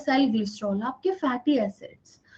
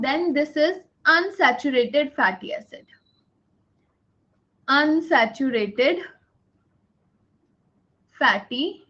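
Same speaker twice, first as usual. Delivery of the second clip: very slow, every word spaced for note-taking; teacher dictating notes word by word; slow dictation; much slower than usual. Shown as a demonstration. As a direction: dictate it slowly so they can write. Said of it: "dictation slowly".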